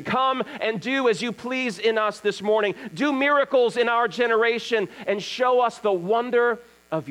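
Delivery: fervent prayer. Real, not acted. Pastor leading morning prayer to the Father, fervent. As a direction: pray aloud with rising fervour, then ease down.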